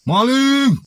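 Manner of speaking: high-pitched drawn-out cry of thief; alarm cry. Acted. Villager threatens his friend by crying thief, alarm cry. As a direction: call out to rouse the village.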